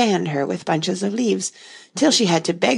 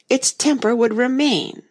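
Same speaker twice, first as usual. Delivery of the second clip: triumphant; 8 semitones higher than usual. A narrator's reading. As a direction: crow it out in triumph. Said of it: "the Queen exclaimed triumphantly".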